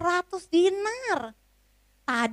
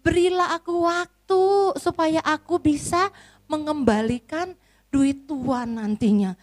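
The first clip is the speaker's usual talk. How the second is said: higher pleading, slowing at the end; pleading servant; 4 semitones higher than usual. Acted. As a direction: ask for time humbly. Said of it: "memohon-mohon".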